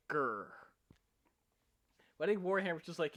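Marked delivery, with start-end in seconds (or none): 0.1-0.5 short mock orc growl. Shown as a demonstration. Showing friends what an orc sounds like, mock growl. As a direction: give a brief "grr" like an orc. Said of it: "more kind of just like".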